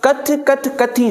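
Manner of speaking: कथ कथ कथी said slowly, each कथ apart; slow plural reading. Shown as a demonstration. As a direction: space out कथ कथ कथी. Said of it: "हाणे हे प्लूरल थी वियो".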